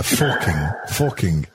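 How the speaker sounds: forking with a Northern vowel; forking said low, Northern style. Retold or imitated. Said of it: "trying out an accent".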